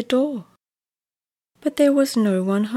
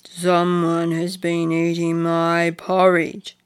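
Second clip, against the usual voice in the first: papa bear voice; 3 semitones lower, 3 dB louder than usual. Acted. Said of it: "said Big Papa Bear".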